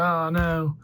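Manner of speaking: mildly upset, drawn-out "oh, no"; mock an upset hero's cry lightly. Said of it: "super upset".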